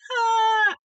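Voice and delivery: high, airy "ah"; playful high sigh of freedom; free-spirited "ah". Acted. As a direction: let out a carefree hippie "ah". Acting out being free-spirited.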